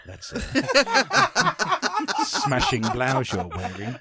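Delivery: hammed-up seductive voice, laughing through; mock flirt, breaking into a laugh; sultry voice. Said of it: "don't use your sultry voice".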